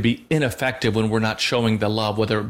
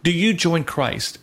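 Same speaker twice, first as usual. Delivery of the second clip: lightly voiced priest asking, slow and a touch higher; liturgical question; 5 semitones higher, slower than usual. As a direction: ask it slowly, like the rite's question. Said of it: "It says".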